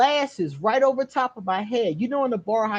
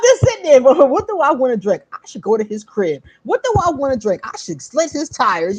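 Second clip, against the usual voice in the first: laughing retelling; 3 semitones higher, 6 dB louder than usual. Retold or imitated. Telling the audience her bar thoughts, laughing. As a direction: laugh through the revenge plans.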